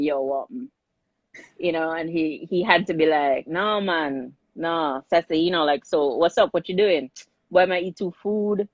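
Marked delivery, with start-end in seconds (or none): 0.0-0.5 casual, low Jamaican phone greeting; lightly put-on Jamaican accent; imitated Jamaican patois. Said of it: "in anything but patois". 3.5-8.7 casual Jamaican chat, lightly put on; a hint of Jamaican accent; imitated Jamaican patois. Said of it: "in anything but patois".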